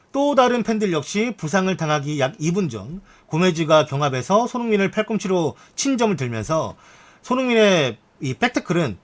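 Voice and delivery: formal, projected article reading; news read. Acted. Streamer reads viewers Everton fans' reactions, news read. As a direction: report it like a sports news reader.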